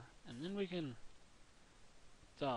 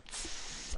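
imitating a creeper hiss. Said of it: "They just walk up to go".

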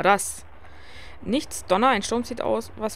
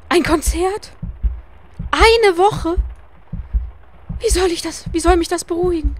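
high, loud, frantic cry of dismay; panicked outburst; 10 semitones higher, 5 dB louder than usual. Acted. Wilma panics at Arthur's letter, loud high frantic cry. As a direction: shriek it out as if the storm is closing in.

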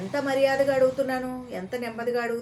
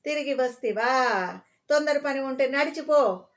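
gruff dismissal; 4 semitones higher, 4 dB louder than usual. Acted. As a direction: sneer at the pest and send him off on foot. Angry station master dismissing him.

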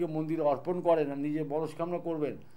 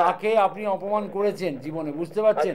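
to someone hard of hearing; 5 dB louder than usual. Real, not acted. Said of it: "আমি তো জোরেই বলছি".

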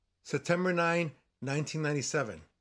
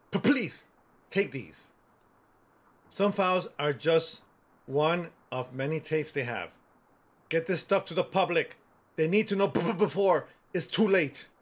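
stuttering voice; 2 semitones higher than usual. Retold or imitated. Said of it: "I talk like that".

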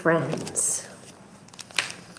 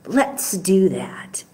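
soft unvoiced whisper, slowly; 2 semitones lower, 6 dB quieter than usual. Real, not acted. Teacher inviting kids to sing, soft whisper. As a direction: let them in on a secret.

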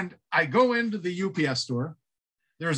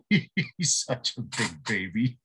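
ordinary talk, nothing marked

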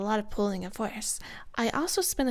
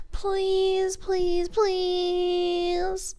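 pleading; 5 semitones higher, much slower than usual. Acted. Begging captor to keep playing.

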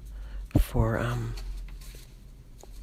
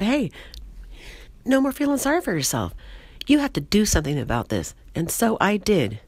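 animated, higher-pitched sketch character; lively comic monologue voice, often pitched up; Patricia, chatty and proud; 5 semitones higher than usual. Acted. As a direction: tell it eagerly as a proud oversharer. Plays Patricia telling her weight-loss story.

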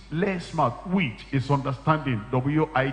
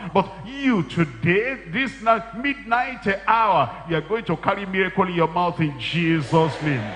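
preaching climax; 3 semitones higher than usual. Acted. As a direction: stretch out each phrase, rising.

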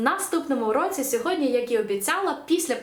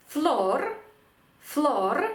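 «флор» as one stressed Spanish syllable; final-syllable stress; 4 semitones higher than usual. Shown as a demonstration. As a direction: model «флор» with full weight on the one syllable. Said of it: "останній склад".

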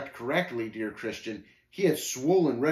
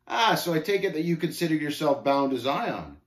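a touch higher, mocking scoffer; lightly voiced scornful Shame; 4 semitones higher, 4 dB louder than usual. Shame questioning the pilgrim bound for Zion, mildly mocking. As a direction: lightly play a smug challenger.

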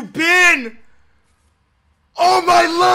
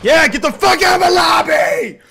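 loud taunting shout; triumphant shout at a beaten rival; gloating yell; 3 dB louder than usual. Real, not acted. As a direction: rub the win in with a yell.

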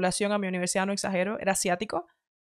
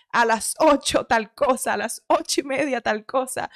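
type A planner; 4 semitones higher, slower than usual. Retold or imitated. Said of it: "tipo A, como".

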